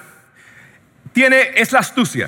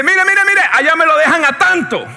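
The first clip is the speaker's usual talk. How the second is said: eager haggling; 5 semitones higher than usual. Acted. Buyer rushing back to haggle.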